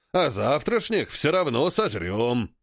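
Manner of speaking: slow gloating ape voice; ape leader voice. Acted. (медленный злорадный голос)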